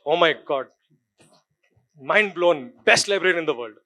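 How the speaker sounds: dry, mock-impressed praise; sarcastic. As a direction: fake awe for an old library. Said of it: "Sarcastically, by the way".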